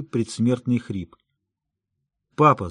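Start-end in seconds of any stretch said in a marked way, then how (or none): 2.4-2.7 a touch of a tearful shout; crying out. Acted. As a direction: call out through tears, understated. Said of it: "закричал я сквозь слезы".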